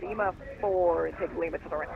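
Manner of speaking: choppy radio audio dropping out; broken-up transmission with gaps; audio cutting out. Real, not acted. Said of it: "Can you guys hear the audio cutting out right now?".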